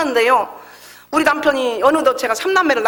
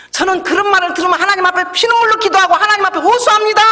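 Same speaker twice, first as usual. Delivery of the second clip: louder, higher fervent preaching; 8 semitones higher, 4 dB louder than usual. Real, not acted. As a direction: proclaim it with full force. Preaching at full force.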